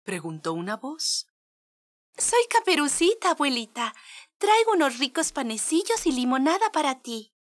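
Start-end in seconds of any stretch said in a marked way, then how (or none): 2.2-7.3 niña inocente. Acted. La niña llega a la casa.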